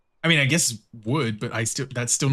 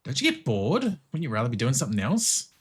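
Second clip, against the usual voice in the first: put-on Australian accent. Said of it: "she's just so Australian".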